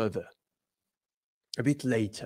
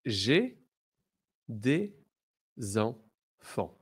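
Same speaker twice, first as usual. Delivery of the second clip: slow model phrase; much slower than usual. Shown as a demonstration. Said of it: "Repeat after me".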